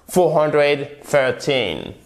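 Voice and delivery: put-on "four hundred thirteen" slow, stress on the final "teen". Shown as a demonstration. Teacher shows stress on the second syllable to learners. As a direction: land the stress on the end of "thirteen". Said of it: "On fait bien l'accent tonique".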